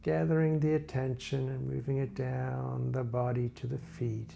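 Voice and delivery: calm body-scan narration, phrases spaced far apart; guided meditation. Real, not acted. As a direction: guide listeners gently through a body scan, unhurried.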